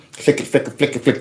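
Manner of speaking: quick, hushed repeated flicks; imitated light flicking. Host acting out someone flicking the party lights, hushed. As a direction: mimic a switch under your breath, softly.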